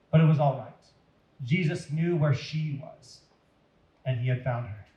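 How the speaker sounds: gentle read-aloud storyteller voice; story narration. Acted. Reading an Easter story to listeners, storyteller voice. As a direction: tell it like reading to children at bedtime.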